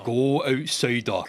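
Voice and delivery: slow mimicry of a Scottish bear; imitated Scottish bear. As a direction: echo the bear's Scottish accent, drawn out. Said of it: "he's got the accent".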